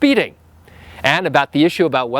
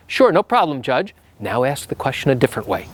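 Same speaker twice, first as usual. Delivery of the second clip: calm accommodating reply; 2 semitones lower than usual. Retold or imitated. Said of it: "the better practice is".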